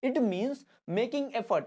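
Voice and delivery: slow, word-by-word reading; slow classroom dictation; dictation pace. Shown as a demonstration. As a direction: dictate it slowly for notes. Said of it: "dictation of definition".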